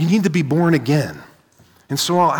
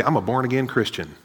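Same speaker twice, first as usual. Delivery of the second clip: quieter, lightly put-on Southern accent; 3 semitones lower, 5 dB quieter, faster than usual. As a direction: say it with a slight Southern twang. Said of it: "said that in a Southern accent".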